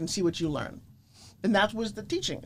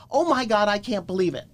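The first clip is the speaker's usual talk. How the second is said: mock amazement; 4 dB louder than usual. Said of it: "Please don't write me".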